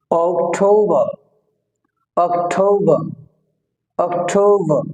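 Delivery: অক্টোবর with a long gliding "tou". Shown as a demonstration. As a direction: stretch অক্টোবর as "ok-thou-ba", falling. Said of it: "এখানে ঔকার হবে".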